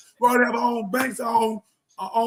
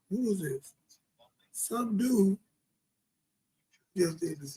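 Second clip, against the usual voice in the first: hushed, breathy aside to himself; whispered aside; 3 semitones lower, 9 dB quieter, slower than usual. Real, not acted. Preacher reading news, whispering who is this. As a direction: drop to a whisper, half to yourself.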